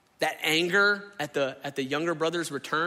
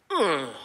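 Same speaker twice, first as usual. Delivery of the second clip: dreading groan; 4 dB louder than usual. Retold or imitated. Reaction to relatives coming for Thanksgiving.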